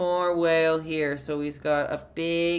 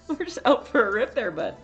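quicker, higher mock Canadian bro; hammed-up Canadian; 6 semitones higher, faster than usual. Shown as a demonstration. Streamer repeats Canadian slang for chat, hammed-up. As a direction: lay the Canuck on thick. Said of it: "things I say that are really Canadian".

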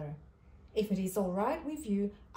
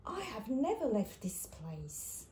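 timid little platypus, nervous; a shy creature frightened of leaving home; 4 dB quieter than usual. A narrator's reading. Platypus tells the kangaroos he has never left, nervously. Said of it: "said in a nervous voice".

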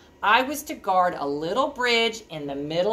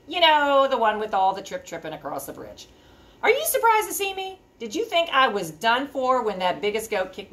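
lightly voiced cheerful troll greeting the listener; friendly troll host; 3 semitones higher than usual. Friendly troll welcoming young readers, a light troll voice. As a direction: welcome them in like a chatty troll. Troll narrator introduces himself.

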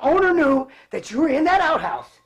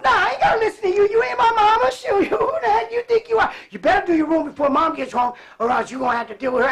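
bossy sister; 5 semitones higher than usual. Retold or imitated. Big sister ordering her little brother to do his room, mock scolding. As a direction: mimic a bossy sister telling him off.

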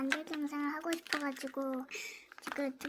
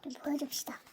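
whispering; 5 dB quieter than usual. Real, not acted. Whispering beside the filming child.

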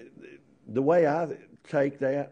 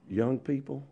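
soft, slow, fading to a whisper; hushed final plea; quiet urging; 5 semitones lower, 7 dB quieter, much slower than usual. Real, not acted. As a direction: press it home in a hush. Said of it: "sermon ends softly".

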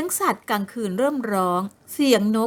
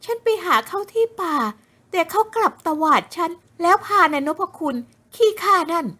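higher, aggrieved complaining voice; aggrieved young woman; 8 semitones higher than usual.

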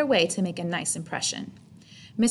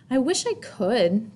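miserable; 2 semitones higher, slower than usual. Acted. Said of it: "thought Chrysanthemum miserably".

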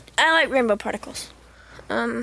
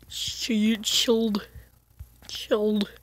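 whisper; 6 semitones lower, 7 dB quieter, slower than usual. Real, not acted. Whispered comment.

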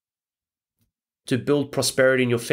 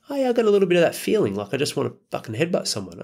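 agitated client voice; 6 semitones higher, faster than usual. Retold or imitated. Client confessing to Al, mock agitated and rushed. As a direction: play the edgy client blurting it out. Client voicing pent-up anger.

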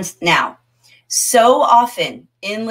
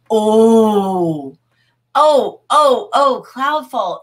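loud, rising delighted exclamations; light up at a clever comment; excited oh; 4 dB louder, much slower than usual. Real, not acted. Teacher thrilled by a student's chat comment.

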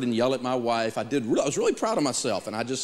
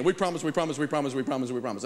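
laughing promise; 2 semitones higher, faster than usual. Retold or imitated. Manager's laughing repeated promise.

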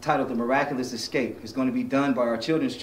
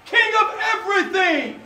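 high, loud gloating tyrant; King Herod; 5 dB louder, slower than usual. Acted. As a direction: lord it over the prisoner. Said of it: "I am Herod".

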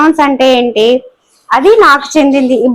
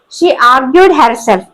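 slow dictation; much slower than usual. Shown as a demonstration. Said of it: "teacher reads example sentence".

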